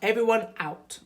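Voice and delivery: loud, firm command; firm order. Acted. Dad sending children out so Mum rests, firm and loud. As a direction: clear the room with a firm order. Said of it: "ordered Mister Large".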